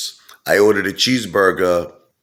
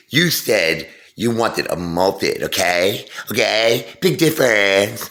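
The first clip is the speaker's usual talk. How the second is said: real attitude; 4 semitones higher, slower than usual. Retold or imitated. Witchy waitress correcting a customer, mocking attitude. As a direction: lecture him with sarcastic attitude. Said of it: "real attitude".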